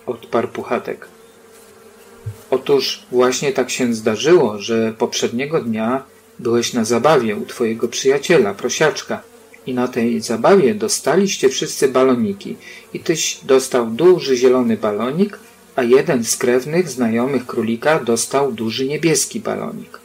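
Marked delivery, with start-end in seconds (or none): none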